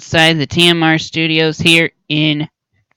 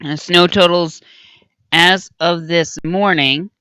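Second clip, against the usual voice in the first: hoarse. Real, not acted. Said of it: "I'm a little hoarse at the present moment".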